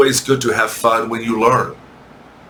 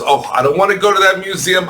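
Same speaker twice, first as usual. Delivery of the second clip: higher, fast, hammed-up dread of the noisy museum; mock dread; 5 semitones higher, much faster than usual. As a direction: rattle it off in mock horror. Teacher repeats complaint, exaggerated.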